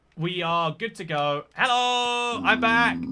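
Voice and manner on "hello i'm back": loud, high, raised call-out voice. Returning to chat after an audio problem: louder than normal voice. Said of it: "I'm using a louder than normal voice".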